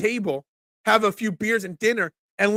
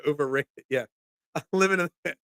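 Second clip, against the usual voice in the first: laughing; 4 semitones lower, 5 dB quieter than usual. Real, not acted. Laughing at own story.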